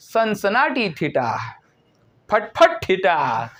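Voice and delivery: slow teasing nonsense in place of sine; playful mock mumbling; mocking garble. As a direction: make fun of the confused pupils. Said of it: "આવું હુટપટી બોલશે".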